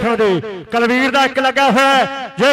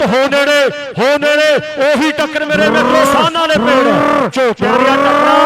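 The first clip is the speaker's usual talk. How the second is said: excited shout; 3 semitones higher, 3 dB louder than usual. Real, not acted. Clash of raiders, crowd roar.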